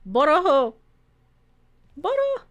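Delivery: high, playful call for someone. Pretend. Player looking for a companion in the game, calling out high.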